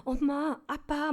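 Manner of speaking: high, bright-pitched call to the parents; high cheerful pitch. Retold or imitated. Daughter greeting her elderly parents, high and chirpy. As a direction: call out to mom and dad up on a high note. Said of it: "솔, 높은 음으로".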